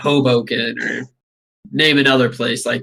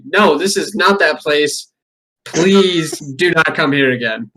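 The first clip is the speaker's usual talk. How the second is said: slow mock refusal; slower than usual. Voicing a tired sign owner.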